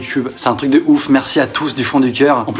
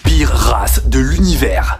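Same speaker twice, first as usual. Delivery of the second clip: disgusted; 2 semitones lower, much slower than usual. Real, not acted. Disgusted verdict, slowed.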